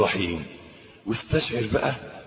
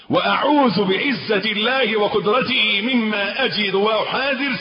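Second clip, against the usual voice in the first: raised recitation; 6 semitones higher than usual. Acted. Preacher recites the prayer aloud.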